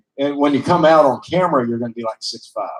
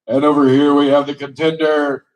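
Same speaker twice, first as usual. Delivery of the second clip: wrestling commentator. Pretend. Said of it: "I can see it now".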